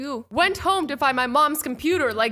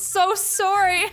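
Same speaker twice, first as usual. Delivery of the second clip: mock sympathetic mom; 8 semitones higher, 5 dB louder, slower than usual. Mom's reply voiced in retelling.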